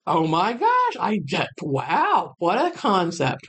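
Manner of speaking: mild mock amazement, drawn out at the end; amazed realization. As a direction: play up a wowed reaction. Acted amazed reaction to vet.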